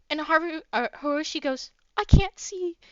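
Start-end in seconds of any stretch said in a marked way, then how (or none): 2.0-2.8 high, loud frantic whine; panicked. Acted. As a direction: Hoshi frantically telling Haru he can't see, high. Hoshi panics, can't see hair.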